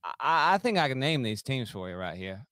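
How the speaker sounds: lightly faked Southern accent; Brian Kelly. Podcast host opening his trivia answer, mock Southern accent. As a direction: lay on a folksy fake Southern accent. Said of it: "trying to do a Brian Kelly impression".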